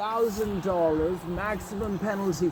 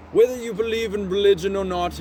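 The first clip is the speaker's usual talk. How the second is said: laughing; 5 semitones higher, 5 dB louder than usual. Real, not acted. Laughing restart.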